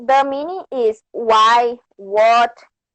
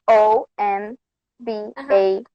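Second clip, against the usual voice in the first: letter by letter, pausing between each; spelling it out; 3 semitones lower than usual. Shown as a demonstration. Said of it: "It's A P".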